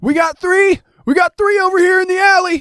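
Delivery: very high-pitched, loud holler. Game master voicing a man in the alley calling out to others, yelling. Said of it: "he starts yelling".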